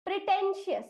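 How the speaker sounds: pretentious said clearly as a pronunciation model; pretentious sounded out. Shown as a demonstration. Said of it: "इस शब्द का उच्चारण हम करेंगे".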